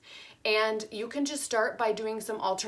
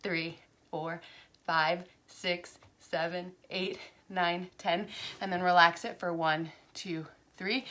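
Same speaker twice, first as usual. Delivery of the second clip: counting aloud; slower than usual. Shown as a demonstration. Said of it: "So you're like".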